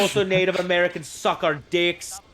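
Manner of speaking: high, loud put-on settler rant; mock colonist rant. Acting a colonist with a musket.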